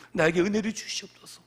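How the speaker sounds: loud demonstrated petition; crying out in prayer. Shown as a demonstration. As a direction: push the prayer out as a cry. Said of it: "이렇게 우리는 소리쳐야 됩니다".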